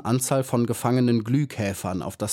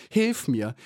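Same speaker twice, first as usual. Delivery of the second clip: a mild acted plea, higher; desperate plea; 4 semitones higher than usual. Maya praying to God, mild acted high plea. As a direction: beg for help with growing fear.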